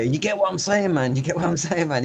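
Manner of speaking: imitating Americans asking "you get me"; street talk imitation. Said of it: "when they say to me".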